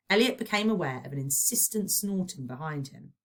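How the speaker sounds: ordinary delivery, nothing marked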